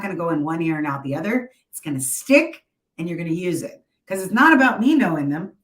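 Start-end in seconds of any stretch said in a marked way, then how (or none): 4.1-5.5 motivational speaker. Real, not acted. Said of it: "Sorry if I sound like a motivational speaker".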